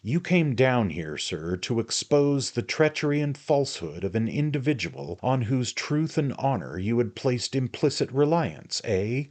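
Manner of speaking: loud sneering tirade; jealous sneer. A narrator's reading. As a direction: sneer through each accusation. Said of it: "indulged in a prolonged sneer".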